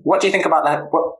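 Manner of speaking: ordinary delivery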